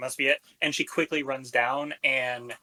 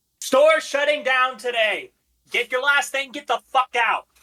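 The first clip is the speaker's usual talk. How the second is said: very high, intimidating, angry shout; 11 semitones higher, 7 dB louder than usual. A player's character yells at the people in the store to get out: angry intimidating yell. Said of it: "She yells out".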